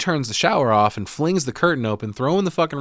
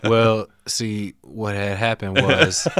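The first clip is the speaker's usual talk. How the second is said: mock sheepish excuse; much slower than usual. Jokey excuse voice.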